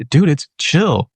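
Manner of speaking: slow, drawn-out, easygoing dude; a hint of a chill friend calming him; laid-back reassurance. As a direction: stretch it out like nothing's wrong. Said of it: "people around me saying".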